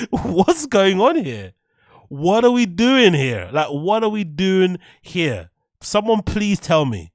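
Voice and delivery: real heated outburst, slow and loud; heated rant. Real, not acted. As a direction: pour out real exasperation, drawing each question out. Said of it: "I don't know why I'm so heated".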